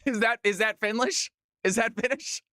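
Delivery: lightly mocked Finnish question; bad Finnish accent. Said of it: "worst attempt at a Finnish accent".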